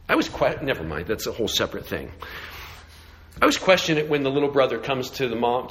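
ordinary talk

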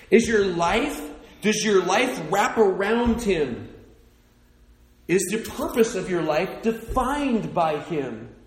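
slow, loud, high challenge; fervent preaching. Real, not acted. Pastor challenging the congregation, loud and slow. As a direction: press each question on the crowd.

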